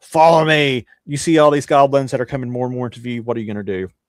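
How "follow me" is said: high-pitched, loud, almost yelling. Narrating a dwarf in the game, close to a player's ear: almost yelling. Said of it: "the dwarf almost yelling in your ear".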